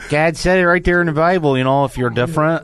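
put-on hillbilly accent. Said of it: "hillbillies that you parody in your act".

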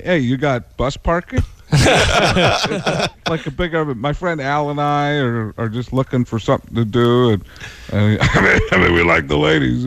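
a lightly done gruff announcer; John Madden. Pretend. Prank-calling the ranch as the famous announcer, lightly done. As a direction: play the famous announcer, casual. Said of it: "as John Madden".

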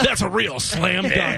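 slow, drawn-out announcer delivery; fighting game announcer. Acted. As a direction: announce it like a big arena hype man. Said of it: "Doing your announcer voice".

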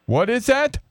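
mock him with stretched, plodding words; mimicking co-worker. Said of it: "That's how you sound".

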